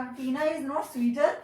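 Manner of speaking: slow, word-by-word example sentence; slow dictation. Shown as a demonstration. Teacher dictating the example sentence to her class, slow and deliberate. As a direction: spell it out slowly for students to write. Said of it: "तो sweater हो जाएगा".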